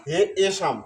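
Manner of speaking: হে এসাম as "he, e-sham"; long হে, then separate এসাম; correct pronunciation demo. Shown as a demonstration. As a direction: split হে from এসাম. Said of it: "উচ্চারণ হবে হে".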